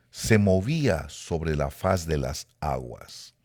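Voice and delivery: measured, deliberate verse reading with pauses; scripture reading. Acted. Preacher reads Genesis to the congregation, measured scripture reading.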